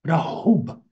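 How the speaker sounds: "Rahub" with a strongly breathed h in the middle; corrected pronunciation. Shown as a demonstration. Teacher repeating for a student, carefully pronounced "Rahub". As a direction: open the throat between Ra and hub in "Rahub". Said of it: "One more time".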